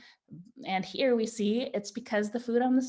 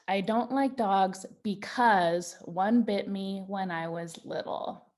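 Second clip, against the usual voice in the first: slow reading. Shown as a demonstration. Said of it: "I wrote".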